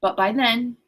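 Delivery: measured read-aloud voice; story narration. A narrator's reading. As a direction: read the novel aloud, evenly paced. Reads the novel aloud.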